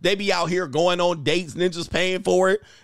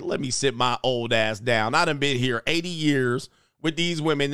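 low-pitched imitation of a worn-out old man; lightly voiced tired old host; Bob, weary; 5 semitones lower than usual. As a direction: drop the voice, mock old and fed up.

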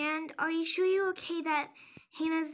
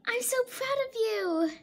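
laughing; 6 semitones higher than usual. Acted. Laughing while congratulating.

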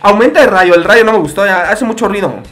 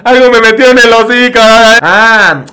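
nervous; 4 dB louder, much slower than usual. Real, not acted. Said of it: "me puse nervioso".

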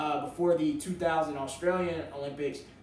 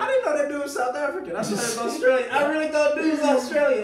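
loud, high, laughing embarrassment; laughing admission; 10 semitones higher, 7 dB louder than usual. Real, not acted. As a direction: own the mistake while cracking up. Laughing, loudly admitting the mistake.

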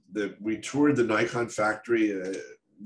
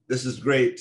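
higher, louder burst of delight; thrilled inner voice; 5 semitones higher, 5 dB louder than usual. Retold or imitated. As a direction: replay the high of a great assignment. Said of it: "this high of".

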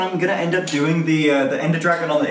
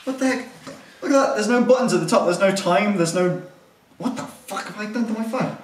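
higher, excited exclamations; startled surprise; 3 semitones higher than usual. Real, not acted. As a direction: react in disbelief at the screen. Shocked by glitching phone.

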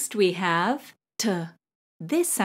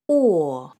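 New York accent; 3 semitones lower than usual. Shown as a demonstration. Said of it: "How would you say the word or in a New York accent?".

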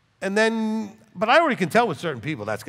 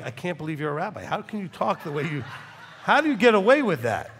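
incredulous, laughing question; mock the shocked listener through laughter; imitating the congregation's amused disbelief. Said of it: "some of you look at me like".

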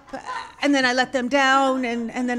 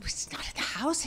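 whisper; 2 semitones higher, 10 dB quieter than usual. Retold or imitated. Owner whispers, alarmed.

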